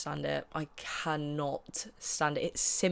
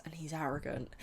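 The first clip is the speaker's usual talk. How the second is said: whispered jab; 6 dB quieter than usual. Real, not acted.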